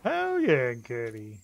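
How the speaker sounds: excited cheer. Real, not acted. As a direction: burst out in celebration. Celebrating a member's message.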